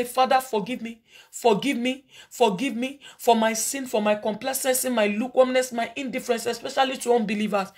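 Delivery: intercessory prayer to the congregation; fervent prayer. Acted. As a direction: plead for forgiveness before God. Leads congregation in repentance prayer.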